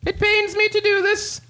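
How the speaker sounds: high, formal, betrayed king; a grave king, pitched well above his own voice. Acted.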